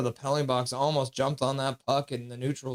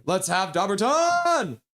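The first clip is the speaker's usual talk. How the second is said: rallying cry; 5 semitones higher, 3 dB louder, slower than usual. Pretend. Rallying for the draft pick.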